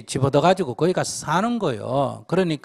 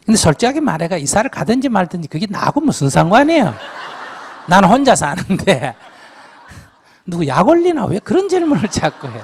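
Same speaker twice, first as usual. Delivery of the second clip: louder, laughing as he jokes; laughing tease; 4 semitones higher, 5 dB louder than usual. Real, not acted. Monk teasing the questioner, louder laughing banter. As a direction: chuckle through a mock complaint.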